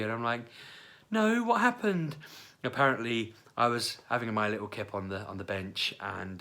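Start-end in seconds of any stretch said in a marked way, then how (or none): 1.1-2.2 confused. Retold or imitated. Retold confused reply.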